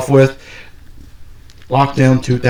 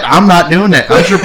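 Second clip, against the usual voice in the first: higher-pitched, insistent protest; mock indignant refusal; 6 semitones higher than usual. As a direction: play a wrestler digging in his heels. Acting out the wrestler refusing.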